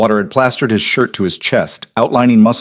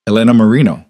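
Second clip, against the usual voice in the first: slow savoring repeat; 4 dB louder, faster than usual. Acted. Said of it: "He repeated it slowly, tasting each syllable".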